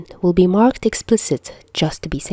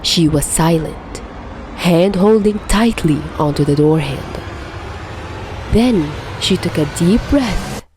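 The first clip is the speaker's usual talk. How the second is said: story narration. A narrator's reading. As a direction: read it like a grim bedtime tale.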